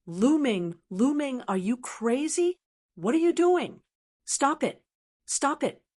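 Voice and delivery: high, frantic pleading cries; panicked screaming. Acted. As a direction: scream in terror for him to stop. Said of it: "he screamed crazily and cried out".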